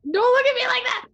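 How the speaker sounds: high, loud, hammed-up yell; mock outraged shout. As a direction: blurt it out in fake outrage. Mock outburst at a staring player.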